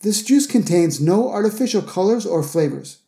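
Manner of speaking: whole sentence run together at natural native pace; native speed. Shown as a demonstration. Teacher replaying the juice advert for learners, native-speed demo. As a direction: say it fluently, "artificial" in quick joined syllables. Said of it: "listen again at native speed".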